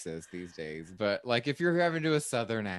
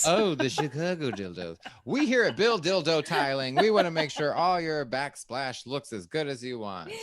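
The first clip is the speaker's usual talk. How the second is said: hammed-up commercial announcer pitch, a bit higher and louder; mock ad read; 4 semitones higher, 5 dB louder than usual. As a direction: sell the tiling business like a cheesy local ad. Pretend tiling company ad.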